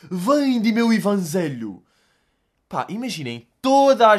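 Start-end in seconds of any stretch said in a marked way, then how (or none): 0.1-1.8 slow, higher, loud preacher proclaiming; street preacher. Retold or imitated. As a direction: boom it out like a street preacher reading the Bible. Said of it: "ele tá tipo". (pregador de rua a gritar devagar e mais alto)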